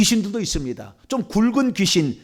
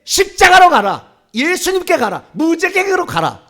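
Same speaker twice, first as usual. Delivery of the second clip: high, raised banishing orders; commanding; 7 semitones higher, 6 dB louder than usual. Shown as a demonstration. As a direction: send it off in solemn, ringing commands. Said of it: "이렇게 명령을 해야 되는".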